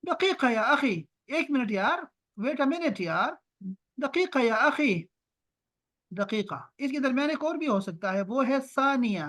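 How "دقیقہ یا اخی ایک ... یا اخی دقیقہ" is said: slow, drawn-out "دقیقہ یا اخی", pitched a bit higher; asking to wait a minute. Shown as a demonstration. Teacher shows students how to say "one minute, brother", slow and drawn out. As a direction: hold someone off with a stretched "دقیقہ". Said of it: "تو آپ کسی کو یہ بھی کہہ سکتے ہیں".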